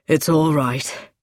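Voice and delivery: low, slow male character voice; winded reassurance. A narrator's reading. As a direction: repeat the reassurance slowly and deeply. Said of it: "He was breathing hard".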